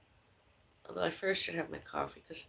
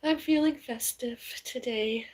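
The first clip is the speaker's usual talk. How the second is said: mock festive; 6 semitones higher, 3 dB louder, slower than usual. Real, not acted. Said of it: "In a sad sort of way".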